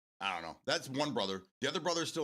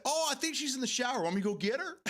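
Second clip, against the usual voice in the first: high-pitched imitation of a movie character; hammed-up, high film quote; Phil Hartman; 13 semitones higher, 4 dB louder than usual. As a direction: quote the comic actor in a raised, lifted voice. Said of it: "Phil Hartman was such a gem".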